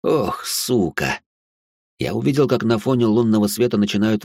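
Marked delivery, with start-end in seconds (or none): none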